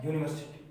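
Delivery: यूनिवर्सिटी said clearly with a yoo sound at the start; teacher modelling the word; pronunciation demo. Shown as a demonstration. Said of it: "क्या लिखा मैंने?".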